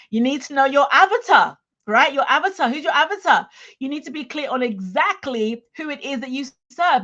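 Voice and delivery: emphatic push. Real, not acted. Coach hammering the avatar point.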